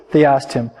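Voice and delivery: storyteller reading to the congregation; calm sermon storytelling; story narration. A narrator's reading. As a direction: tell it gently, like reading a tale aloud. Reads a long story aloud.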